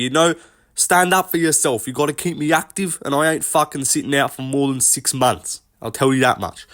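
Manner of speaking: put-on a light, not-quite-there Australian accent; half-hearted Australian impression of a fighter; Volk Australian accent. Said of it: "that's probably the best Volk impression I've ever done".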